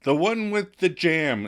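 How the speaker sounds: slow, grand title announcement; announcing the title. Shown as a demonstration. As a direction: present the episode title. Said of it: "What are we doing this week?".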